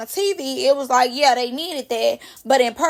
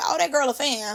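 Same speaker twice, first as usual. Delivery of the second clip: belittling, dismissive, insulting tone; 6 dB quieter than usual. Retelling how Diamond really said "fan": imitating Diamond, saying it as an insult. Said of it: "the way she said it, she was saying it like".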